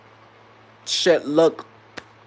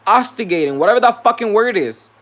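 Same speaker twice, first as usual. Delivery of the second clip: loud, high-pitched angry retort; upset outburst; 9 semitones higher, 7 dB louder than usual. Retold or imitated. Worker snapping at coworkers who keep provoking, loudly upset. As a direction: fire back, fed up and loud. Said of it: "I'm upset".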